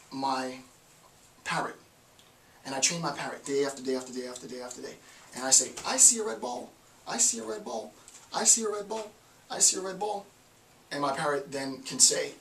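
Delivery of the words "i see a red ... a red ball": high, repetitive training voice, as if coaching a bird; sing-song drilling of a pet. Retold or imitated. Owner drilling his parrot, repeating in a high sing-song voice. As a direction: chant the phrase over and over, high and sing-song.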